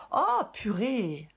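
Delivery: slow, loud amazed exclamation; surprised. Real, not acted. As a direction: stretch it out in disbelief. Card comes back again.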